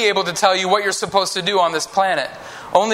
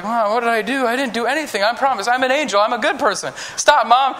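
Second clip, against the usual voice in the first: put-on protesting child; 4 semitones higher than usual. Acts child protesting to a parent.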